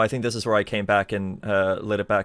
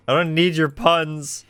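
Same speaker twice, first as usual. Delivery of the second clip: mock indignant; 7 semitones higher, 6 dB louder, slower than usual. Real, not acted. Scolding chat user Zeus.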